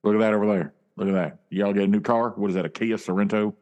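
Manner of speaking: casual Southern drawl of a famous singer. Acted. Distracting friends from his fidgeting, singer-like drawl. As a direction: chat away in a famous singer's drawl. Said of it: "what's with the voice?".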